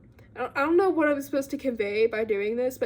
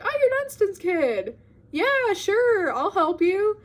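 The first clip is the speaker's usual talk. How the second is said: much higher, eager little man; lightly voiced quirky little man; 9 semitones higher, 3 dB louder than usual. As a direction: chirp it like a funny little helper. Weird little man agrees to help.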